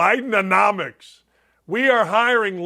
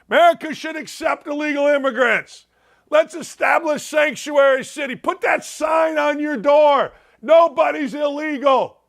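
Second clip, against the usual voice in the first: mock liberal; 4 semitones higher than usual. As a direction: parody slogans in a shouty, raised voice. Mocking liberal voices on signs.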